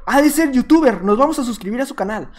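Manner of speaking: lightly voiced impressed rival players; mock astonishment, a touch emphatic; imagined amazed fans. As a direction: act out stunned admirers. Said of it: "para que digan".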